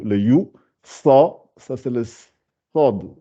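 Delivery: sa spoken slowly with a full back vowel; slow careful sod. Shown as a demonstration. Teacher showing the emphatic letter, slow sa. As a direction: stretch the sod sound, round and full. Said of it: "elle est gonflée".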